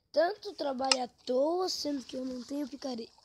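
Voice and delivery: loud, fast frustrated complaint; annoyed outburst; frustrated rant. Real, not acted. Frustrated at wasted effort.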